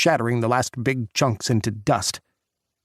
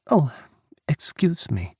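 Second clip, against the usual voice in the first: put-on accented English; 5 semitones higher than usual. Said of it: "switching to accented English".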